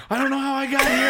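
put-on high, bewildered drunk mumble; dazed drunk friend.

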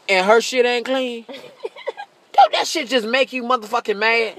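ordinary talk

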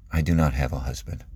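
low, soft, subdued admission; simple sadness. Acted. Woman admitting a painful truth to Jesus, sad. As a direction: say it very simply, quietly pained. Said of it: "there's sadness in her voice".

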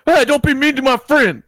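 high, slow, hammed-up yell; loud imitation of a hothead; mock angry shout. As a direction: holler like an overprotective friend. Imitates friend starting a bar fight.

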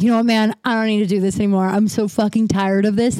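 mildly heated, fed-up retelling; losing it. Retold or imitated. Retelling her blowup at her father, mildly heated. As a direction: retell an outburst with some edge. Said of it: "I just fucking lost it".

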